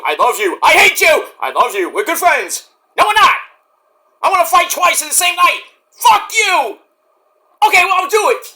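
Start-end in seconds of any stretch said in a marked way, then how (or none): 0.6-1.3 high, loud mock snarl; mock angry. Tag partner yelling at the other, high and loud. Alternating hate and love. 3.0-8.5 high, whiny bickering voice; squabbling partner. Retold or imitated. Partner bickering with his teammate, high and whiny.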